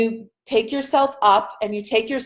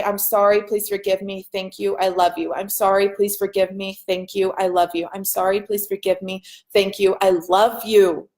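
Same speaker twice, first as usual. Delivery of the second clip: tender mantra; 3 semitones lower than usual. Shown as a demonstration. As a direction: murmur it gently to yourself, hand on heart. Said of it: "I hold my hand on my heart and I say".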